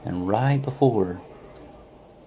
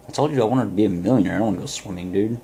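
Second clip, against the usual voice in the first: exasperated protest; faster than usual. Retold or imitated. Young man balks at the guru's walk in the water, exasperated protest. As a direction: object to the guru's odd request.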